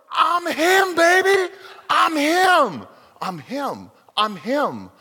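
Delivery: high, loud triumphant strut; brash boast. Retold or imitated. The player coming down the court, crowing loud and high. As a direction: crow it like a hot-handed star.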